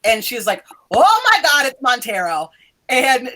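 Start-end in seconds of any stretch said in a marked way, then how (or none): 0.9-2.5 high, loud burst that drops away; freaking out. Acted. Professor reacting to the collapse in the hall, acted freak-out. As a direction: act out a brief panic. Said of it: "Mary is immediately freaking out".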